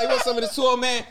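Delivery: high, loud mocking put-on voice; mock taunt. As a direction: taunt like a cocky kid.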